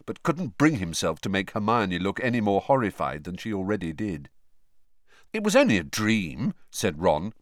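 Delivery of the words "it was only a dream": bracing. Acted.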